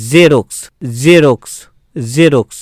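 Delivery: "জেরক্স" opened with a buzzing z; half j, as z. Shown as a demonstration. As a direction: model "জেরক্স" slowly separated, z not j. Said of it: "বর্গীয় জ এর উচ্চারণ সম্পূর্ণভাবে আসছে না".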